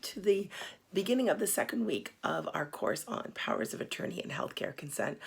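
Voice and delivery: hoarse, sick, grating voice; rough voice from being unwell. Real, not acted. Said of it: "I apologize for my terrible voice".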